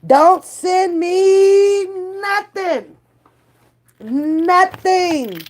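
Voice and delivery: high, slow, stretched-out warning; drawn-out sassy warning. Real, not acted. Warning viewers not to send fish gossip, drawn out. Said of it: "I promise I'll be mindful".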